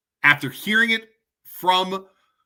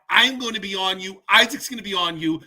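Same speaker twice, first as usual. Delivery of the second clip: angry threat; 2 semitones higher than usual. Real, not acted. Threatening school leaders.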